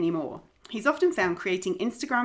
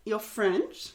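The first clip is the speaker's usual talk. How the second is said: "French" with a nasal, almost French vowel; a hint of a French accent on "French"; half-French "you're French", rising; slight French accent; 5 dB quieter than usual. Real, not acted. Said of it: "That was almost a French accent".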